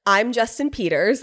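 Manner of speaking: feed the line to be repeated; lead-in take, pitched near own voice; retold prompt. Wife has husband repeat after her, prompting. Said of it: "I was like, "Repeat after me".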